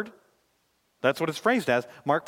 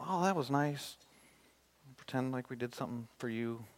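soft, earnest prayer with long pauses; closing prayer; 3 semitones lower, 4 dB quieter than usual. Real, not acted. Preacher praying to God for the congregation, hushed prayer. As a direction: pray quietly and sincerely, phrase by phrase.

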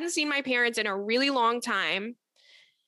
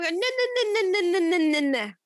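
emphatic no; 7 semitones higher, 3 dB louder, faster than usual. Retold or imitated. Refusing when he turns it around.

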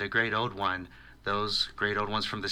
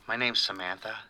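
sultry voice. Acted. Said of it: "a very sexy, sultry voice".

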